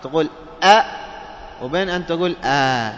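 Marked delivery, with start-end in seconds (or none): 0.6-0.8 "أ" as a short, loud, hard glottal stop; همزة محققة. Shown as a demonstration. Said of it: "بين أن تنطقها محققة". 2.4-2.9 "آ" as an open, drawn-out vowel; pure alif sound. Shown as a demonstration. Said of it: "كأنك تنطقها ألف".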